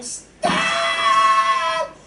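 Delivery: hammed-up panicked kid yelling stop; kids screaming. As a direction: scream like a kid begging to get off. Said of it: "they're screaming".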